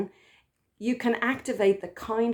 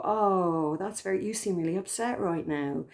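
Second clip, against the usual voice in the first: kind mother voice. Retold or imitated. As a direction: comfort an upset child like a loving mother. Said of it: "there's this kind tone of voice".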